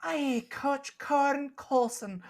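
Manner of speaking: chirpy Scottish baker chatting; Scottish accent. Acted. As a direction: keep the Scottish shopkeeper going, high and chatty.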